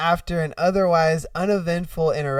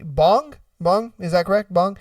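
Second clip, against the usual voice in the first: lightly puzzled double-check on BONG; questioning tech worker. Acted. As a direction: repeat it as a hesitant question. Tech support checking the silly password.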